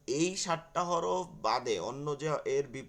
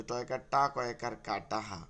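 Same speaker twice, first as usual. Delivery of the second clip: imitated Barisal village accent; 4 semitones lower than usual. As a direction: spell it out as a Barisal villager would. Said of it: "আঞ্চলিক ভাষাটাকে টানে বেশি".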